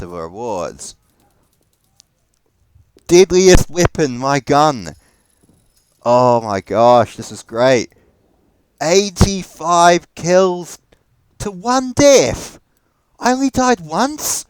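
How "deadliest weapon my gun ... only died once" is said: much higher, slow amazed exclaiming; thrilled. Real, not acted. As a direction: savour every stat with glee. Reading great end-match stats.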